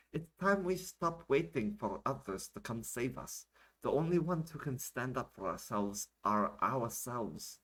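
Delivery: slow, deliberate, slightly lifted rallying words; emphatic translation. Acted. The speaker translates for the camera, slow and emphatic. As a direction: press each phrase home slowly.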